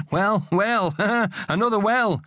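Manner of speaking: high, giggly wordplay; laughing. A narrator's reading. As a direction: laugh between the words at a silly pun. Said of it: "Kim laughed".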